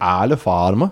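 attempted, put-on Dutch accent. Guessing how a beer maker's name is pronounced, in a put-on dutch accent. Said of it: "That was my Dutch accent".

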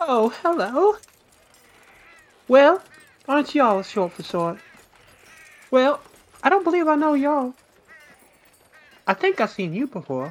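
put-on bright, very high young woman's girl voice. Storyteller voicing the girl behind the jail desk greeting the group, as a human girl. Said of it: "she looks up and says".

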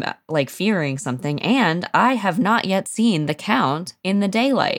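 ordinary talk

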